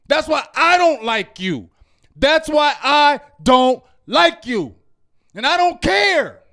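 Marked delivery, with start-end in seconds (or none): 2.2-4.8 LIKE YOU set apart, each word drawn out slowly; emphatic repeat. Real, not acted. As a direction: slowly hammer out "I don't like you". Angry rant, repeats it emphatically.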